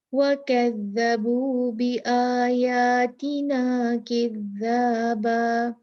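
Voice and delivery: very slow chanted verse; Quran recitation. Acted. Teacher reciting the second example, slow and chanted. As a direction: recite slowly, stressing each ذ.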